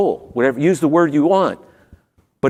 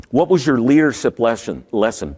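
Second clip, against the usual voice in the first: talking with a numb tongue; slurred by a numb tongue. Real, not acted. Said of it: "I got a little bit of a numb tongue".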